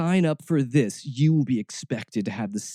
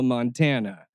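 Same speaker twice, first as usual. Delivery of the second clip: ordinary talk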